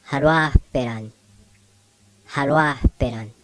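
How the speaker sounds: haruahperan with an H breath before P; slipped-in J sound. Shown as a demonstration. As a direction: slip a Spanish-J H into haruahperan before peran. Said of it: "a J sound that we kinda slip in".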